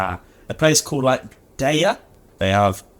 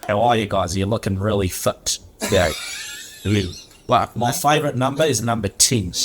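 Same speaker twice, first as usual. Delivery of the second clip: put-on Kiwi accent. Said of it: "That's my Kiwi accent".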